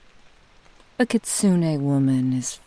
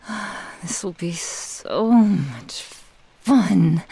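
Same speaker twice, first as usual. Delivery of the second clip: rising into a louder, drawn-out thrill; gleeful anticipation; 5 semitones higher, 4 dB louder than usual. Acted. Kitsune imagining play with the pet, mounting delighted excitement. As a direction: relish it, swelling higher and landing hard on the last word.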